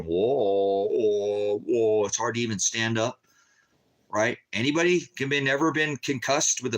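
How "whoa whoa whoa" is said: slow, swaying drawn-out whoa; dizzy whoa. Retold or imitated. Former SWAT officer showing a flash bang's effect, swaying dizzy whoa. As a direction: sound like you're losing your balance. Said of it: "Your balance gets all fucking".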